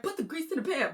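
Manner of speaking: high-pitched mock holler; playful high imitation of hollering; retold hollering. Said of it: "hooting and hollering at a girl".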